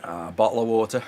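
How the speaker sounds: loud, exaggerated British skit voice; skit British accent. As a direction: punch it out like a British comedy skit. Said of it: "Every time you hear it on skits".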